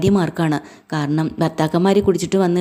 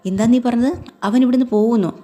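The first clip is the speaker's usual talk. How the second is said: a retold jolt of shock, pitched up; startled retold; 6 semitones higher than usual. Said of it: "ബാലൻ അങ്ങ് ഞെട്ടിപ്പോവുക".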